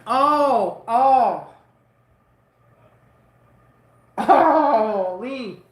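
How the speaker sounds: loud drawn-out "oh" of sympathetic pain; pained wincing groans. Real, not acted. Imagining a friend's broken knee, loud pained wince. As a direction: wince aloud at someone else's injury.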